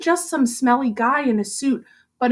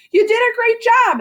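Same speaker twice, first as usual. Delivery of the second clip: smiling praise; 10 semitones higher, 5 dB louder than usual. Acted. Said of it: "and he smiled".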